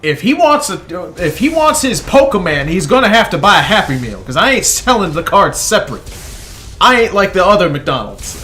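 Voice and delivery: high, loud angry yell at a coworker; manager screaming. Retold or imitated. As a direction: bellow it like a furious fast food manager. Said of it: "she screams over at the woman".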